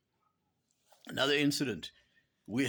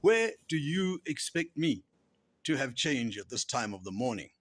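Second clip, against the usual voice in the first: loud, gruff taxi driver retort; mock-gruff complaint, easing off at the end; 2 semitones higher, 3 dB louder than usual. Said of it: "was told very gruffly".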